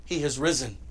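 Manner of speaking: low, soft, hushed statement; quiet announcement. Shown as a demonstration. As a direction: say it softly, almost to yourself. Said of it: "Here's the announcement".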